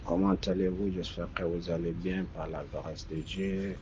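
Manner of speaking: usual speaking voice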